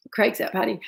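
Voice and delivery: hushed aside whisper. Real, not acted. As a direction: whisper it like a secret. Aside about absent husband.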